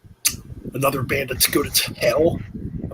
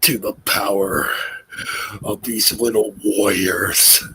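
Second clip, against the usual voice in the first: Ultimate Warrior impression; slower than usual. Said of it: "Ultimate Warrior".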